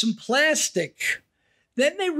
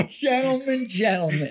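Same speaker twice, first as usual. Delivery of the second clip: carnival barker; 2 semitones higher than usual. Retold or imitated. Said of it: "the guy would tease him and say".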